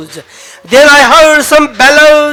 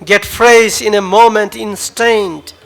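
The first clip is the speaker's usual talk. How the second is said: measured dramatic poetry reading; poem recital. Acted. Poet reading his own farewell poem to the audience, solemn.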